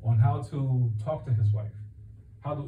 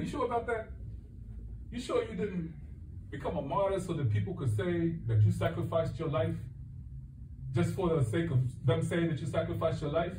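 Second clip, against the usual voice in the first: higher, softer skeptical questioning; probing doubt; 4 semitones higher, 6 dB quieter than usual. Retold or imitated. Allah doubting the martyr, softly probing. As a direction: press him gently but doubting.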